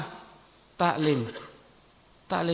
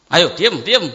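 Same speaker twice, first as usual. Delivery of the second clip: hushing shout; 9 dB louder, slower than usual. Retold or imitated. Hushing a crying child at home.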